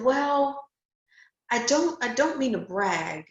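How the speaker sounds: retold sheepish hedge, starting high with a halting pause; hesitant disclaimer. Candidate retells hedging to a job interviewer, hesitant disclaimer. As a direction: imitate a reluctant, high-pitched stumble into an answer.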